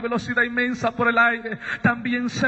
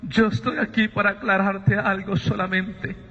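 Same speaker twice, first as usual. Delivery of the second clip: measured reproach, pausing between phrases; lightly voiced voice of God; reproaching divine voice. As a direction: lay out the accusation piece by piece. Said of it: "Me dice".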